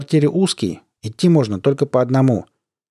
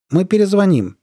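raised phone voice; 8 semitones higher, 3 dB louder than usual. Acted. Caller on phone.

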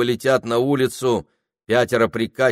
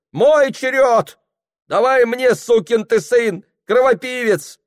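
angry woman shouting; 14 semitones higher, 6 dB louder than usual. Acted. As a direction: hurl the insults at the clerk.

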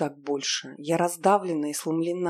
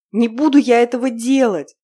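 loud, higher defiant cry; defiant shout; 7 semitones higher, 11 dB louder than usual. Acted. Heroine refusing her captor, defiant shout. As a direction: throw the refusal at him.

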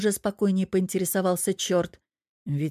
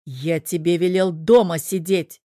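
angry; 5 dB louder than usual. Acted. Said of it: "закипал".

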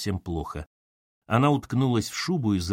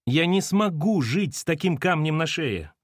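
higher-pitched, mildly anguished protest; crying out; 7 semitones higher than usual. A narrator's reading. Daughter pleads with mother, crying out mildly. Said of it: "закричала Катерина".

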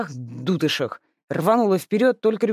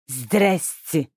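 flat, slow mimicking hello; mocking echo. Lis mockingly echoes the sister's greeting. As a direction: throw her greeting back at her. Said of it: "передразнил Лис".

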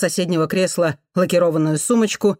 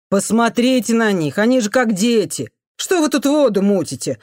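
much higher outraged cry; indignant outcry; 6 semitones higher, 3 dB louder than usual. Acted. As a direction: shame the crowd out loud. Man scolds journalist.

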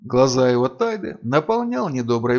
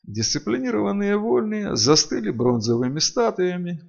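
plain reading voice

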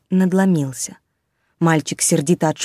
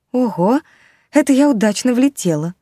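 high, bright giggly pixie; giggling pixie; 5 semitones higher than usual. Acted. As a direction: chirp it with a little giggle. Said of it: "захихикала фея".

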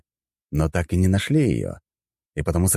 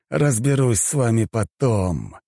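through gritted teeth; 6 semitones higher, slower than usual. A narrator's reading. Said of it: "процедил сквозь зубы мужчина".

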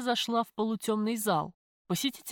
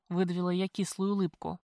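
ordinary delivery

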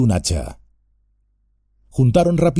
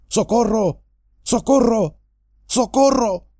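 much higher, desperate calls for help; crying for help; 10 semitones higher than usual. Acted. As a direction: call out down the path for help. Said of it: "corrió a lo largo del sendero gritando".

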